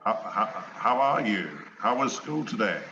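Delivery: nasal, blocked-nose voice; adenoidal voice. Shown as a demonstration. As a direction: speak through your nose. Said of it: "That's an adenoidal voice".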